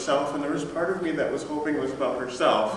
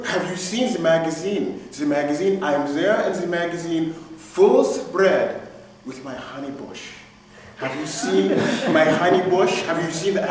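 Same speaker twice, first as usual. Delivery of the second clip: higher and louder, gushing; excited boss; 5 semitones higher, 5 dB louder than usual. Retold or imitated. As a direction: gush breathlessly about the magazine. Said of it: "she was just really excited".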